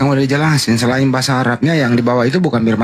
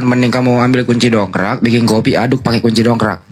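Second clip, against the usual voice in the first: ordinary delivery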